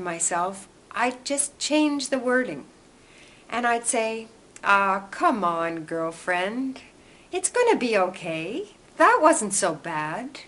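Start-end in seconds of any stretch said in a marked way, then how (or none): 4.6-10.4 slow, gentle reassurance to herself; kind self-talk. Retold or imitated. Telling herself it's okay, gentle and slow like a friend. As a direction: soothe yourself like a best friend would. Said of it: "And I tried being kind".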